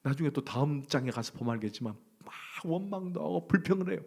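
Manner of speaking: usual speaking voice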